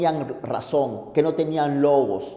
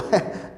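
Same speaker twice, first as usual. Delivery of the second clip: scornful laugh; 5 dB quieter than usual. Acted. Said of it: "de nuevo me río".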